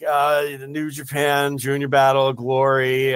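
drawn-out, sluggish delivery; slow motion. Shown as a demonstration. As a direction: drag every word slowly. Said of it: "I feel like I'm talking in slow motion".

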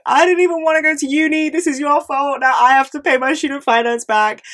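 high, loud mock yell at dad; retold yelling. Daughter yelling at her dad about student loans, high mock yell. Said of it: "I was yelling at my dad".

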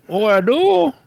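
high-pitched mock Asian accent; imitated Asian accent. Agent replying about his accent, imitated Asian accent. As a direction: answer in a badly faked Asian accent. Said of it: "I can't do an Asian voice".

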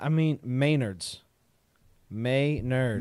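Maynard's said MAY-nerds, slow and drawn out; Maynard's pronunciation. Shown as a demonstration. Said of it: "learn how to pronounce it".

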